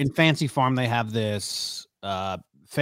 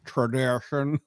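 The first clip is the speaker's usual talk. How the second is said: put-on Kentucky accent; 2 semitones higher, slower than usual. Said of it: "Just such a thick accent".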